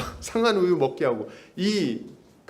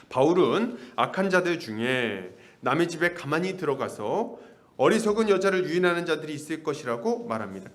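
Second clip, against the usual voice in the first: ordinary talk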